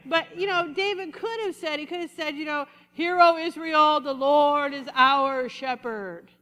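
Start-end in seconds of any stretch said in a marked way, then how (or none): 2.9-6.3 loud, slow, solemn mock-holy proclamation; pious prayer voice. Preacher mocking people whose voice changes when they pray, slow and grand. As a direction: put on the churchy praying voice. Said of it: "their voice changes".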